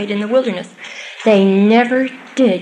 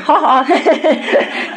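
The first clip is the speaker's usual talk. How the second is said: light laugh; 5 semitones higher than usual. Real, not acted. Laughs at murmuring joke.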